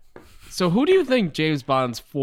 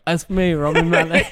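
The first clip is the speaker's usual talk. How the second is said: Rami Malek impression; 3 semitones higher, 5 dB louder than usual. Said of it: "he was like".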